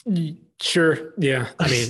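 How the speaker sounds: hesitant, reluctant agreement; unenthusiastic. Real, not acted. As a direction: agree without much excitement, stalling between words. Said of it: "You don't sound too excited".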